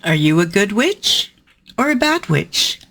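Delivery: playful, wicked witch delivering verse; mischievous villainous poem performance; witch villain reading. Acted. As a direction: relish the villainy like a gleeful witch.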